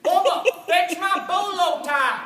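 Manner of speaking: bossy demand. Acted. Stepbrother bossing Bubba around.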